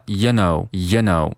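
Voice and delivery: "you know" with "you" reduced to "ya"; casual "ya know"; weak form. Shown as a demonstration. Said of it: "进行一个弱读".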